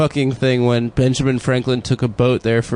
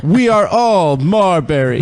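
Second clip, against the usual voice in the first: mock show line; 4 semitones higher, slower than usual. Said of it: "And then it's like".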